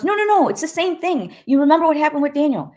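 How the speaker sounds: high, urgent mother's protest; insistent protest. Retold or imitated. Mother arguing with the pastor about her child, urgent insistence. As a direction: imitate a mother insisting, pitched well up and pushed.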